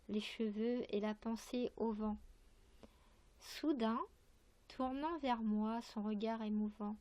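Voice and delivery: unhurried verse reading, lingering on phrases; poem recitation. Acted. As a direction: recite line by line with measured pauses. Reads a poem aloud. (récitation posée d'un poème)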